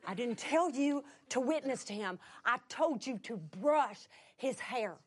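understated stern repetition; firm correction. Retold or imitated. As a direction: calmly hold your ground in an argument. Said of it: "we are just having a fight".

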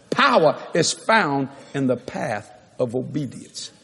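measured, evenly spaced phrases; slow dictation. Real, not acted. Preacher repeats point as congregation writes, slow measured dictation. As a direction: repeat it slowly for people taking notes.

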